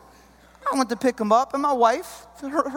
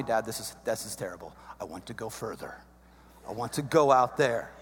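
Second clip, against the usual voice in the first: put-on soft, low kid whine; son's whining voice; 10 semitones lower, 6 dB quieter than usual. Son begs to go further.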